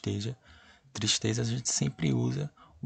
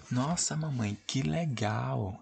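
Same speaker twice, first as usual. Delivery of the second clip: put-on higher, slow delighted child's voice; excited girl; 3 semitones higher, 4 dB quieter, slower than usual. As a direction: play the thrilled little girl. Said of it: "Então, ó".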